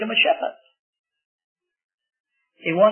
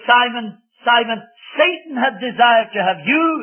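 earnest call; 3 semitones higher, 5 dB louder than usual. Acted. Preacher voices Jesus warning Peter.

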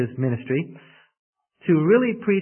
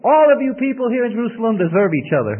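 higher, louder fed-up farewell; exasperated parting shot; 8 semitones higher, 7 dB louder than usual. Retold or imitated. Preacher retells his exasperated goodbye to Jerusalem, higher and louder. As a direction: fling it back as you leave. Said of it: "And I remember leaving and I said".

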